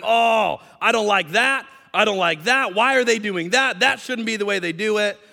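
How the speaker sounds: hammed-up fault-finder's protest; mock complaining. Preacher mimics churchgoers who object to everything, mock complaining.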